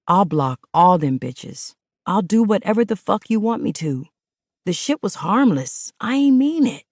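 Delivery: urgent begging plea; pleading. Acted. Man pleading with his partner not to leave. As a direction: beg her to stay. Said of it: "he pleaded".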